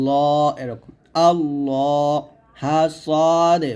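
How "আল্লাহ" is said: আল্লাহ with a full, heavy ল; heavy lam. Shown as a demonstration. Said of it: "লফজুল আলাম মোটা করবেন".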